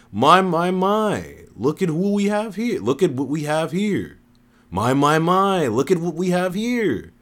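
high-pitched, theatrical woman; woman's entrance line. A narrator's reading. Woman surprising the group from behind, high and theatrical. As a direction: draw out a high, showy greeting. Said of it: "a woman said from behind".

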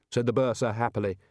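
ordinary delivery, nothing marked

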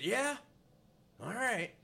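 high, loud grudging answer; grumpy old man brushing him off; curt sarcastic. Retold or imitated. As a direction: toss it off dismissively.

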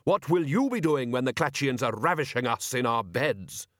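haughty, scolding matron; imperious old lady. Acted. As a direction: shame him with an indignant question.

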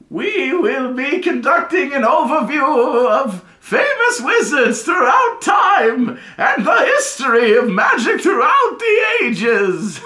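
put-on high, loud, slow old wizard voice; a mad professor's booming announcement, drawn out; high slow professor proclaiming to his class; eccentric old professor. Professor restarting his lecture.

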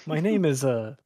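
flat mechanical robot voice; deadpan robot, no emotion. Pretend. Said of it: "Just in a robot voice".

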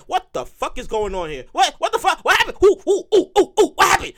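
stunned then climbing into a laughing panic; shocked disbelief. Pretend. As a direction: freak out at the empty account. Shocked at the empty account.

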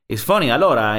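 playful imitation of an Italian accent; light mock Italian-English; Valentino Rossi. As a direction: say it with an Italian lilt. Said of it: "But he says it's funny".

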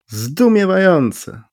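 high, slow amazed call; astonished cry. A narrator's reading. The uninvited stranger calls out in high, slow amazement. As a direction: draw it out in wonder. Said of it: "zawołał nieproszony dyskutant".

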